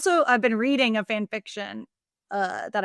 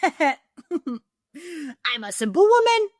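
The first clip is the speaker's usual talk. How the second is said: high, very slow, swooning; mock swoon; 7 semitones higher, 4 dB louder, much slower than usual. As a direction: melt over the line, dragging it out. Swooning joke about the line.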